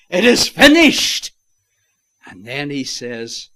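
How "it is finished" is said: high triumphant shout; loud cry. Retold or imitated. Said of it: "he cries with a loud voice".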